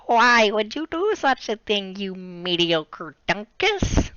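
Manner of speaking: a lightly voiced stern old Scottish teacher; McGonagall impression. Teacher scolding misbehaving students, slow and stern. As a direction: scold slowly like a stern schoolmistress. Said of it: "how did McDonald sound again".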